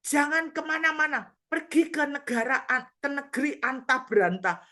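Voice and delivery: high, loud rebuke; preacher ordering the spirit to a faraway land; commanding shout. Retold or imitated. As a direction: banish it with full force. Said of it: "saya ngomong gini".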